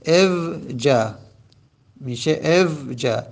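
اوجا stretched slowly with a long final a; slow dictation of اوجا; drawn-out form. Shown as a demonstration. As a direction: hold each sound of اوجا. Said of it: "اما حالا ببینید او".

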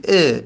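ا said alone as a short e; kasre on alef. Shown as a demonstration. Teacher showing the helping alef's vowel, ا as e. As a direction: isolate ا as the vowel e.

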